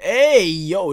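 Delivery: startled, stretched-out cry of disbelief; shocked outburst. Real, not acted. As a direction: blurt it out in loud, playful shock. Shocked reaction to the scene.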